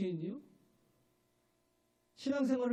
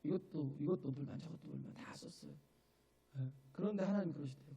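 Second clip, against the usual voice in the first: ordinary talk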